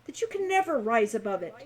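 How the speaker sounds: booming, grandiose proclamation of a famous adventurer; grand book voice. Acted. The magic book addressing Hawk, grand and booming. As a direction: declaim it like a boastful hero's manual. Narrator reads the book's grand voice.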